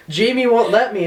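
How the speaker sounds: high-pitched mock protest; retold freak-out. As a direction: imitate your drunken panic. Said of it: "I was, like, freaking out".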